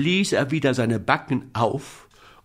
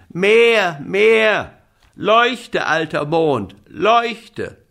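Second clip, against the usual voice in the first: high, loud repeated commands; shouting; 7 semitones higher, 5 dB louder, much slower than usual. Acted. Little boy ordering the old moon to shine, shouting high. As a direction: yell each word up at the moon. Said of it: "schrie Häwelmann".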